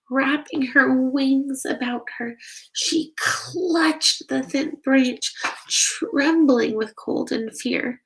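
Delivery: gentle read-aloud storytelling voice; story narration. Acted. Narrator reading a bat story to children, gently. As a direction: read it like a bedtime picture book. Reads picture book aloud.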